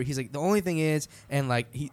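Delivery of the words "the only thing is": lightly imitated sweet Southern host; a touch of easygoing Southern hospitality; sweet Southern accent. Host showing the band round the house, lightly sweet Southern accent. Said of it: "in his real sweet Southern accent".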